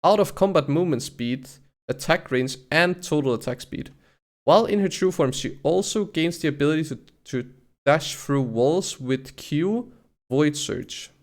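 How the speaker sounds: deliberate read-out of game text; reading aloud. Real, not acted. Streamer reads ability stats to viewers, deliberate reading. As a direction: read out each stat with punched key words.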